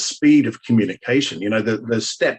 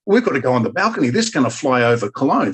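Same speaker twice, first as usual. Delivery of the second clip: excited urging; 2 semitones higher, faster than usual. Retold or imitated. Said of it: "I said".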